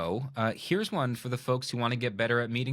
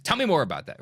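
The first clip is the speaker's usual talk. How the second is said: louder, commanding demand; 4 semitones higher, 4 dB louder, faster than usual. Shown as a demonstration. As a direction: bark it like an order. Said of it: "not a command".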